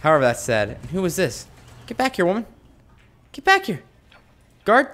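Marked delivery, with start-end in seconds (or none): 1.9-4.9 mock yell. Calling after fleeing prisoner.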